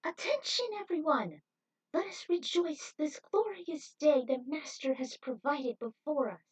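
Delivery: rally the crowd from a podium; announcing cult leader. A narrator's reading. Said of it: "announced from their podium".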